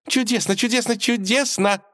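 very high, ecstatic repeated cry; delighted singsong. A narrator's reading. Princess spinning around the room, high delighted singsong. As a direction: trill it while spinning. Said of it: "восторженно пропела Василиса".

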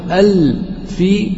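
"ال في" dragged out slowly and questioningly; wrong example. Shown as a demonstration. Teacher testing students with an impossible form, slow and questioning. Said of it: "لا يصح".

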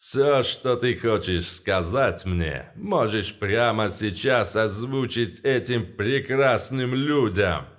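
slow, grand stage delivery; hammy stage actor. Acted. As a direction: play to the crowd. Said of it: "продолжил поставленным голосом".

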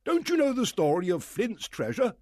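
high, loud, eager squire; excited squire. Acted. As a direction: squire exclaiming about Flint.

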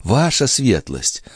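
put-on high young maid's voice; Nicole voice. Maid pleading with the old duke, high girlish voice. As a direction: play the pert young maid.

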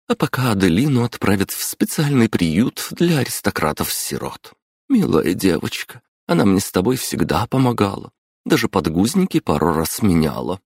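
lightly voiced chatty mother; a hint of a lively mom. Мама болтает. (лёгкий голос мамы)

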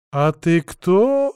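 медленно, с удивлением; протяни вопрос в изумлении; удивлённо. Acted. (удивлённо, медленно)

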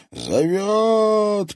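high, loud ghostly wail; eerie moan.

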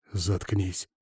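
soft, menacing "shut up"; a hushed warning to his friend; quiet threat. Acted. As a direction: threaten him under your breath. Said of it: "пригрозил я".

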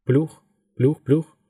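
pace "плюх" evenly, like far-off blades; blade noise imitation. A narrator's reading. Helicopter blades heard as sound.

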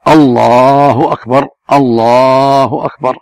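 الله أكبر slow, long lam, short همزة and باء; correct takbir. Shown as a demonstration. Showing callers the proper takbir, measured. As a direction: model the proper takbir calmly. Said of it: "الواجب على المؤذن والمقيم أن يقول".

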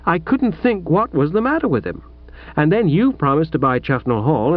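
lightly voiced young woman, set on her own way; a hint of a stubborn daughter standing firm; defiant daughter. Pauline argues with father.

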